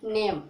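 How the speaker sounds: नेम with a lengthened ए; long vowel. Shown as a demonstration. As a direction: model नेम, holding its ए slightly. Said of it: "क्या बोलते हैं". (नेम, ए को थोड़ा लंबा करके)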